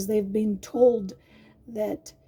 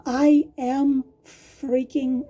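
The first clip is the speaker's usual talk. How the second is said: screaming message; 3 semitones higher, 5 dB louder, slower than usual. Retold or imitated. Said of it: "the letter was screaming".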